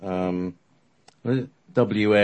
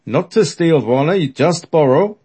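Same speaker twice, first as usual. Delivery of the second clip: Seeger voice; 8 semitones higher, 8 dB louder than usual. Acted. Seeger answers Eckert.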